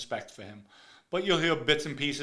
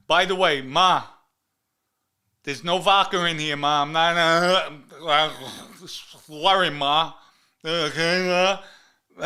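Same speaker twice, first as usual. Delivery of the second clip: calling out to mom; 3 semitones higher, 9 dB louder, slower than usual. Acted. Talking to his mother.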